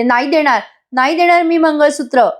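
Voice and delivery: a hint of fear as she refuses the robbers; frightened refusal. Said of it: "घाबरते आणि म्हणते". (घाबरून पण ठामपणे नकार देणं)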